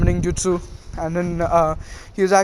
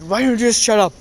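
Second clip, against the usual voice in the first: mock-angry outburst, raised pitch; sudden anger; 5 semitones higher, 4 dB louder than usual. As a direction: act out a fed-up retort, only moderately heated. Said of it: "Where's the sudden anger coming from".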